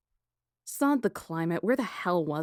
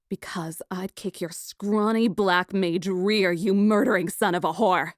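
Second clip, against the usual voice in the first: louder, bold defiance; defiant threat; 5 dB louder than usual. Acted. Lady threatening the black mage, defiant. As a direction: stand your ground and threaten him.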